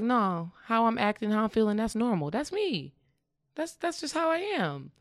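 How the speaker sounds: voicing a defensive ego, rising high; mock the stubborn ego, pitch climbing at the end; light put-on voice of the ego insisting. Mocking the ego's voice.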